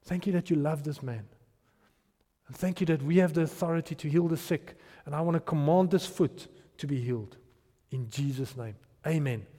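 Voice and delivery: low, subdued retold prayer; simple prayer. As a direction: pray it simply, softly and low. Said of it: "A very simple prayer".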